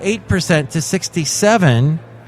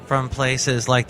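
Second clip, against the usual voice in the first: hushed aside; 7 semitones lower, 8 dB quieter than usual. Acted. Deadpan aside, voice drops.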